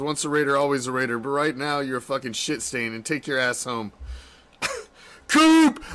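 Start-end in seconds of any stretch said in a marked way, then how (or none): 5.3-5.8 loud high shout of a name; yelled name, pitched way up; yelling. Real, not acted. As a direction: call him out at the top of your voice. Yelling at player on TV.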